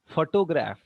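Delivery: phoTOgraph, weight moved to the middle syllable; photograph with the middle syllable stressed; second-syllable stress. Shown as a demonstration. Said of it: "stressing three, three, on the three points".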